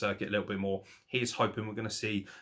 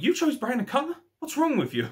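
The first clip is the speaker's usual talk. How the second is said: much higher, louder whining complaint; whingy whine; 14 semitones higher, 4 dB louder than usual. Retold or imitated. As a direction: whine it like a spoiled sulking wrestler. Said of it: "he was such a whingy twat".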